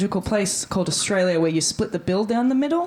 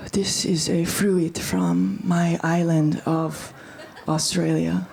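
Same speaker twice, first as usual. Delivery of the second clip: mock mystic parody; 3 semitones lower, much slower than usual. She mimics his ritual.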